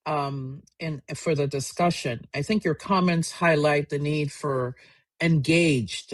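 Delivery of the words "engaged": "engaged" set apart after a short pause, with a falling tune; stress on engaged. Real, not acted. Moderator underlining the need for community efforts, stressing "engaged". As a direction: lean deliberately on the word "engaged". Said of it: "I stress the word engaged".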